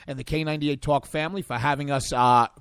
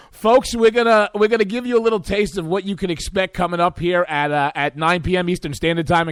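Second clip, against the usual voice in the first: radio promo; 4 dB louder than usual. Acted. Promo buildup to the show.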